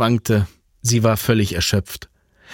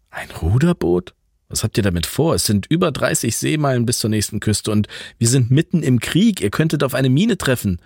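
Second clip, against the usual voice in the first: much higher, disbelieving, rising to alarm on Krieg; surprised alarm; 4 semitones higher than usual. Acted. Franz, shocked they want a rowboat in wartime, alarmed. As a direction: blurt it out in disbelief.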